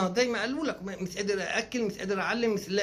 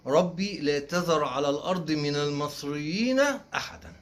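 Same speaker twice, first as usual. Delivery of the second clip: mock sermon prayer; 2 semitones lower, slower than usual.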